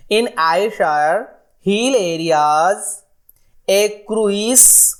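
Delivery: slow, drawn-out recitation of verse; poem reading. Acted. Teacher slowly recites a cowboy poem to the class. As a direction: read each line of the poem slowly, savouring it. Reads poem lines aloud.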